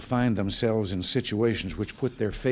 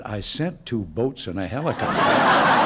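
voice from above; 5 dB louder than usual. Retold or imitated. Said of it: "a voice from above said".

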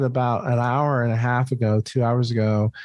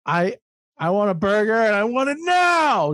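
whiny hungry American; 8 semitones higher than usual. Retold or imitated. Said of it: "we're like".

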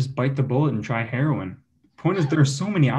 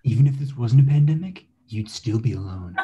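mock Russian cartoon-rabbit accent, taunting; Russian Bugs Bunny accent; 2 semitones higher than usual. The evil twin mocks Mason for eating alone, in a Russian Bugs Bunny accent. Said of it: "Russian Bugs Bunny accent".

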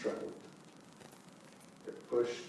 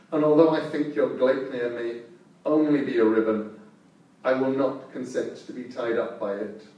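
loud, wary beast voice; sniffing out a trick; suspicious wolf; 5 dB louder than usual. Acted.

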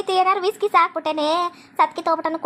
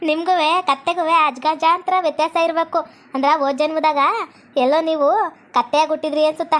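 laughing tease. Real, not acted. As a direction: tease him while laughing. Teasing with a laugh.

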